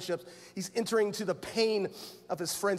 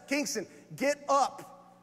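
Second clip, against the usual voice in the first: slow, raised call to wake a son; 5 semitones higher, slower than usual. Retold or imitated. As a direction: call the teenager out of bed, drawn out. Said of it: "I just raised my voice".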